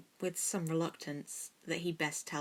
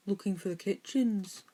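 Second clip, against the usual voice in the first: with a sigh; 3 semitones higher than usual. A narrator's reading. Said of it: "Goyle replied with a sigh".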